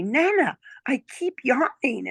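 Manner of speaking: put-on high, childlike voice; little girl voice. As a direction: speak like a small child. Granddaughter voiced in a story.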